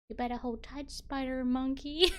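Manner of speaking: loud, hammed-up climax; dramatic film line. Streamer skipping to the famous line, loud and dramatic. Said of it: "and just say".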